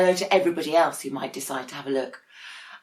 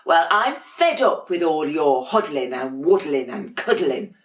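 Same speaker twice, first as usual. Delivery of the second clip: louder, exasperated complaint; fed-up penguin; 6 dB louder than usual. Acted. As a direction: huff it out, fed up with the cuddling. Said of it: "said Dudley one day".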